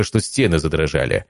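ordinary delivery

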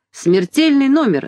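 big ringmaster proclamation; booming circus ringmaster. A narrator's reading. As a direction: announce it like a circus showman. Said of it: "закричал он".

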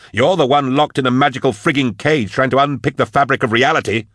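high, exasperated outburst; yelling. A narrator's reading. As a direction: yell it out in exasperation. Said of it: "he yelled".

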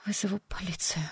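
breathy whispered threat; whispering. Acted. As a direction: whisper it, half-surrendering. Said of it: "прошептала она".

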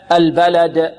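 البلد with a bouncing echo on the final د; qalqalah. Shown as a demonstration. Teacher explains the stop on the word, qalqalah. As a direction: release the د of البلد with a small bounce. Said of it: "فيها قلقلة".

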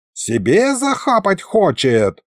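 high, slow, indignant complaint; outraged wail. A narrator's reading. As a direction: protest without really shouting. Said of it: "завопил старый колдун". (возмущённо, высоко, врастяжку)

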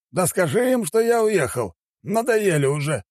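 high-pitched, mildly irritated outburst; annoyed cursing. A narrator's reading. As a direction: grumble at the assistant, fed up. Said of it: "выругался он". (раздражённая ругань высоким голосом)

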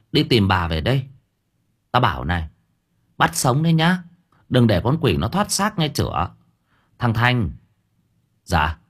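lightly voiced weary older sister; a hint of tired bossiness; fed up. Thơm giving orders to her brothers, lightly fed up. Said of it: "Cô Thơm chán nản".

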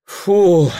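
long relieved exhale after effort; drawn-out exhausted sigh. Acted. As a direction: let out a long spent phew. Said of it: "протянул взмокший, дрожащий Прохор". (протяжный выдох)

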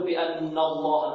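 بأن الله with the noon said heavy, dark a after it; wrongly thickened noon. Shown as a demonstration. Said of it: "لا نفخم، لا نقول".

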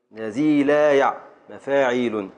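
slow, deliberate foot matched to its pattern; teacher's measured scansion; scanning the verse. Shown as a demonstration. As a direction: sound out "الذي لا يع" evenly, then "مفاعيل". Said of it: "قطع لنا البيت".

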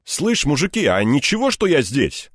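astonished at their nerve; indignant surprise. A narrator's reading. Egor interrupting brazen crooks, indignant surprise. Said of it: "удивился я их наглости".

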